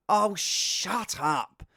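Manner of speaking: long drawn-out mock dismissal; exasperated retort. Streamer brushing off a critic, drawn-out exasperation. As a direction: drag out every word, fed up.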